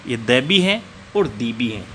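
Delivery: द said as "thuh", दी said as "thee"; slow teacher contrast. Shown as a demonstration. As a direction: contrast द with a short schwa and दी with a long ee. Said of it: "कुछ लोग द बोलते हैं और कुछ लोग इसको दी बोलते हैं".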